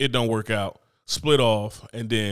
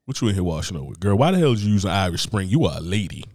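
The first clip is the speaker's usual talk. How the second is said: mock scolding; 5 semitones lower than usual. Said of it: "you about to get a scolding".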